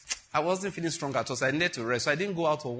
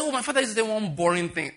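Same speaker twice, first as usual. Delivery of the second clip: higher-pitched mock-bored sarcasm; sarcastica; 6 semitones higher than usual. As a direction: imitate a girl being sarcastic, pitched up. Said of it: "with a lot of sarcasm".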